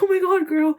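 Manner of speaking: mock disbelief. Speaker reacts to her sad live post, mock disbelief. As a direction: react like you can't believe her.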